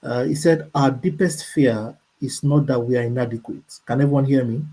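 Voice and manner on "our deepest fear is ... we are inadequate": measured reading of a quote; slow reading. Real, not acted. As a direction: read it out carefully, unhurried. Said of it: "I'll read very slowly".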